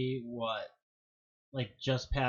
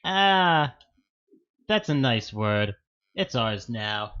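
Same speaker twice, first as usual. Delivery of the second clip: grab the word like a thief; greedy voice; 7 dB louder, slower than usual. Pretend. Voicing English stealing words.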